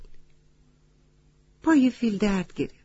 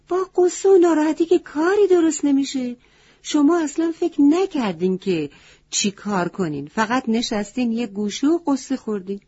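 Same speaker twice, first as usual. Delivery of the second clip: higher, louder, reproachful goat voice; scolding wise goat; 4 semitones higher, 5 dB louder than usual. Acted. Wise goat scolds the animals for sitting and sulking, loud and high. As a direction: scold them sharply like a stern old goat.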